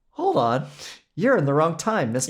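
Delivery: mock scolding. Viewer stops an actor who is in the wrong time, mock scolding. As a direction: stop a stray time traveler in their tracks.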